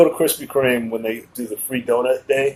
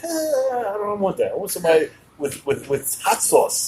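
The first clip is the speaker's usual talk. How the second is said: mock woman's voice; 5 semitones higher, 6 dB quieter than usual. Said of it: "They're all like".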